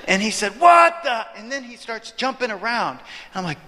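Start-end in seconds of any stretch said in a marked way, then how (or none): 0.6-1.3 high, loud cry of outrage; imitated indignant explosion; mock cussing outburst. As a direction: yell it like the start of a curse. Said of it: "he started cussing again".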